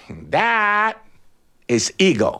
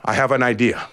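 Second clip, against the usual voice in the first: much lower, very slow eagle voice; slow grand eagle; 8 semitones lower, much slower than usual. A narrator's reading. Eagle telling the chicken where they will fly, slow and grand. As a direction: promise the strong wind, slowly.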